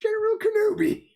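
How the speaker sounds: high raspy robot general greeting; General Grievous voice. Retold or imitated. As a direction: hiss out the name like the droid general. Answering the Hello there meme.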